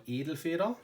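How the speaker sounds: Edelfeder said the German way, AY-del-fay-der; correct German pronunciation. Shown as a demonstration. Correcting English speakers on the pen's name, German pronunciation. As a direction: give Edelfeder its proper German sounds. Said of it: "if you wanna know how to pronounce it correctly".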